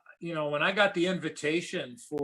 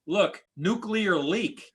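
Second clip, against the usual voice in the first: slow, careful, higher broken English; interpreter's broken English; 5 semitones higher, much slower than usual. Retold or imitated. Interpreter telling the hockey player about the leak, slow broken English. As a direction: spell it out slowly like an interpreter with little English. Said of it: "in his broken English".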